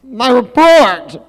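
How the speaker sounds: high, slow anguished wail; dismayed wail. Acted. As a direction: stretch it out in despair. Dismay over ruined report.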